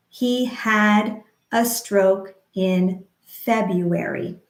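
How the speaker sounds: slow, syllable by syllable; slow rhythmic demo. Shown as a demonstration. Speech therapist modeling a sentence slowly, rhythmic. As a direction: model it slowly for stroke survivors. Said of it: "We could say".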